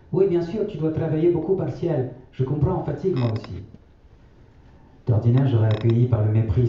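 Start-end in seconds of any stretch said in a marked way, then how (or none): 0.1-3.6 grand-mère, voix bien plus aiguë et douce. A narrator's reading. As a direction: prendre la voix haute de la vieille grand-mère. (grand-mère qui répète sa maxime aux enfants, voix aiguë)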